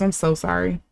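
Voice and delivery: usual speaking voice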